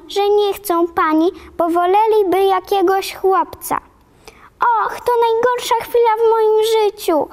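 put-on a hurt child throwing the words back; tearful protest. Orphan girl to Marilla, high and tearful. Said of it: "tłumiącego szlochu".

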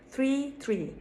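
"three" with th, then "tree" with t; careful "three tree", clearly apart; contrasting pronunciation. Shown as a demonstration. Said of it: "Farklı telaffuzu var". ("three" ve "tree" ayrı ayrı)

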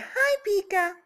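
loud, high prompt for the bird. Real, not acted. Owner coaxing parrot to speak, high prompt. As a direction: say it high so he copies.

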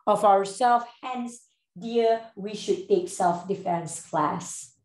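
slow, ceremonious oration; overly formal speech. Shown as a demonstration. Telling friend Shaza about self-defense class, overly formal. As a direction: orate with heavy pauses, as if at a podium. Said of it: "why are you speaking like this?".

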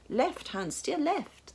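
high, insistent steering order; rising alarm in a command; urgent direction. A narrator's reading. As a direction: steer him urgently, pitch climbing.

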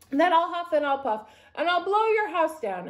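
threatening storybook wolf. A narrator's reading. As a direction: threaten them as a playful big bad wolf.

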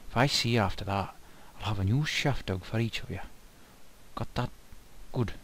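hammy attempt at an Irish accent; terrible Irish accent. Mine boss warning off adventuring fools, in a bad Irish accent. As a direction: do a shaky-quality Irish accent, badly. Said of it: "terrible attempt at an Irish accent".

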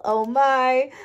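usual speaking voice

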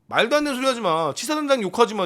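ordinary talk, nothing marked

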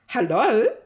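Pig's put-on phone voice; disguised voice. Pig phoning Farmer Jolly in disguise. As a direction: fake a caller's hello. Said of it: "disguising his voice".

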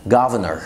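slowed governor, no middle R; governor, only the final R; governor without middle R. Shown as a demonstration. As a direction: say governor as guv-ner. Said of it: "يبقى هنشيل ال R اللي في النص".

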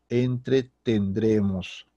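very slow, drawn-out model word; slow syllable split. Shown as a demonstration. Teacher repeating the right conjugation, slow and split. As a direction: stretch it out in parts for learners.

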